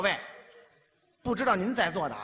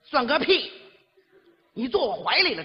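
scolding woman; 5 semitones higher, 5 dB louder than usual. Retold or imitated.

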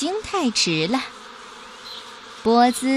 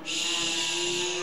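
soft hushing shh; a piglet hushing his friends; 5 semitones lower, 9 dB quieter than usual. Acted. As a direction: hush the others quietly. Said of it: "波兹低声说".

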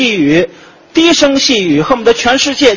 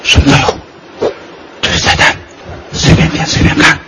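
whispered waiter. Acted. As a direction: breathe it so no one else hears. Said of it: "声音小点".

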